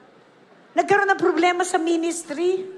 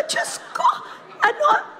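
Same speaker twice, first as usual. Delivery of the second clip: much higher, squeaky surprised "Diyos ko"; startled cry. Retold or imitated. Pastor reenacts her shock at the dead car, high-pitched. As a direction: yelp it out in sudden alarm.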